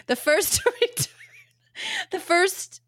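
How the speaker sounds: stumbling over the text while reading; losing her place. Real, not acted. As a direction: lose your place mid-sentence, giggling. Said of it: "wait, now I lost my place".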